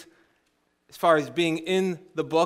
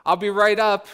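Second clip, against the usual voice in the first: lightly raised calling voice; mock yell; 5 dB louder than usual. Middle sister answering her sister upstairs, mock yell. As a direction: call up to someone, mildly louder. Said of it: "middle sister yelled up".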